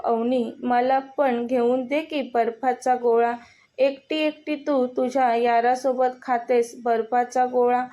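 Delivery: slightly weighted words, "एकटी एकटी" picked out one by one; measured emphasis word by word through "बर्फाचा गोळा"; stress on each word. A narrator's reading. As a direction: lean a little on every word of "Avni, मला पण घेऊन दे". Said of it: "प्रत्येक शब्दावर जोर देत बोलला".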